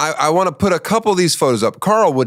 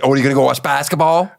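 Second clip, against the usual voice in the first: imitating friend; 2 semitones higher, much faster than usual. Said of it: "Do an impression of me talking".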